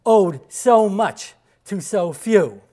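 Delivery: slow it down and lift the volume, like a famous address; quoting Churchill. Retold or imitated. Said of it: "That's when Churchill would say".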